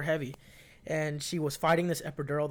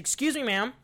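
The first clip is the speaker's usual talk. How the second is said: professional woman; 4 semitones higher than usual. Retold or imitated. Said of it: "She looked real professional".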